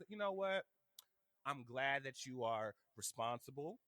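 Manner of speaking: a hint of mom's measured praise; imitating mom. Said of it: "and then she kinda like".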